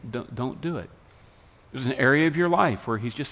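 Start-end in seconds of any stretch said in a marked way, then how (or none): 0.1-0.9 soft, understated warning; mock whispering. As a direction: imitate a quiet inner nudge, softly voiced. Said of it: "he may be whispering to you".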